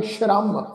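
careful teacher's ਸ਼ਰਮ with a sh. Shown as a demonstration. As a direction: pronounce the first letter of ਸ਼ਰਮ as sh. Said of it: "ਬਿੰਦੀ ਦਾ ਪਾਠ ਲਗਾ ਕੇ".

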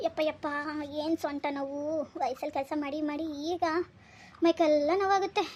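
soft groaning complaint of back pain; aching and weary. Acted. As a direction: groan it quietly, worn out from work. Father complaining of a sore back.

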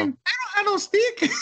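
replaying the stick woman as Consuelo, laughing; Consuelo impression. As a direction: drag out the denial in a cartoon falsetto, cracking up. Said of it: "she was like the Consuelo from Family Guy".

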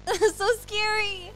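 excited exclaim. Real, not acted. Reacting to horror game.

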